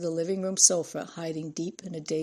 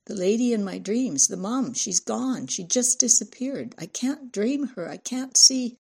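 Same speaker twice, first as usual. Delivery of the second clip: put-on high, plaintive little girl; child pleading in rising alarm; upset small voice, pitched up; distressed child; 5 semitones higher, 5 dB louder than usual. A narrator's reading. Child upset dream mother vanished.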